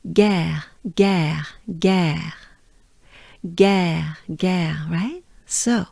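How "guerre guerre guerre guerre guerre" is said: "guerre" with a French R, falling at the end. Shown as a demonstration. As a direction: model "guerre" as separate words, tongue down on the R. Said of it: "keep your tongue down in your mouth".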